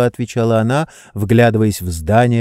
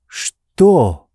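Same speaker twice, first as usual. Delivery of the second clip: startled; 5 semitones higher, 3 dB louder than usual. A narrator's reading. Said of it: "с испугом спросил он".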